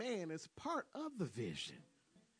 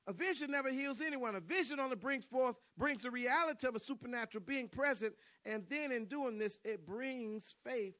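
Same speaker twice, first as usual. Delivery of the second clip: raised, emphatic preacher voice; forceful preaching; 7 semitones higher, 7 dB louder than usual. Real, not acted. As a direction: preach it louder and higher.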